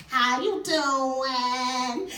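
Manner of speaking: very slow, sing-song come-on. Retold or imitated. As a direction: stretch it out like a smooth flirt.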